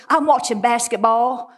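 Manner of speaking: imitated Alabama grandmother; thick Alabama accent. Grandmother on the phone to her grandchild, imitated Alabama accent. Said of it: "she had this really thick".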